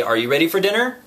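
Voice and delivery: lightly voiced child parroting a grown-up; small child. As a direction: pitch it up like a small child echoing. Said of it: "when a small child is learning to develop sentences".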